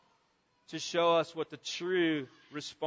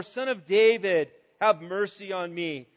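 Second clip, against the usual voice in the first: louder opening that falls away; mild retold shout; 3 dB louder than usual. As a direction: call out firmly, then let it drop. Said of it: "he shouts out all the more".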